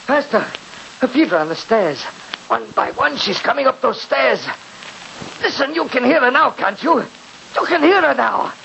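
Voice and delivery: tense, fearful whisper-like urgency; scared and hushed; frightened. Acted. Frightened sister in horror play.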